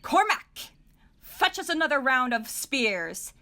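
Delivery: high, loud call across the field. Acted. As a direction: summon the servant from afar. Calling servant across field.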